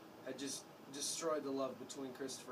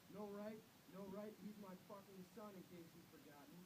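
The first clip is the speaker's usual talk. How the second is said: angry shout; 7 semitones higher, 12 dB quieter than usual. A narrator's reading. Father fighting for his son, angry shout. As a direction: spit back her words in outrage. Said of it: "And Father shouted".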